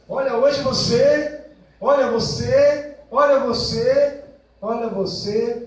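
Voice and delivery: slow, loud, high nagging; nagging complaint. Acted. Partner complaining nonstop in a loud nagging voice. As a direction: harp on the partner over and over.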